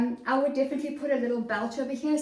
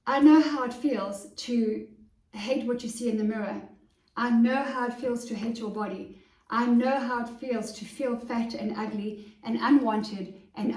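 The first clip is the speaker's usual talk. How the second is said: heartfelt. Real, not acted. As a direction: speak straight from the heart. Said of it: "I'm talking to you from my heart".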